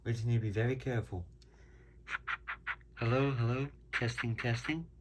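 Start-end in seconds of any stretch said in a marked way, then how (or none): 2.9-4.9 gritty early microphone through a phone handset; carbon microphone sound. Real, not acted. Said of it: "sounds like this has a carbon microphone".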